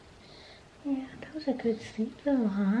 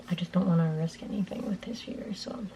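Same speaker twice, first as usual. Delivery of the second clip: whispering; 4 semitones lower, 6 dB quieter, faster than usual. Real, not acted. Whispering while baby sleeps.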